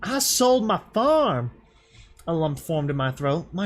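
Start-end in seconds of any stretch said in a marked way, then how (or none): 0.0-1.5 tearful outburst. A narrator's reading. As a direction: break out in anguished anger. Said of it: "her wide eyes filled with tears".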